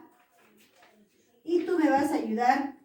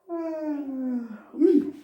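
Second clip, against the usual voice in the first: yawn sound. Shown as a demonstration. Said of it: "¿qué hago?".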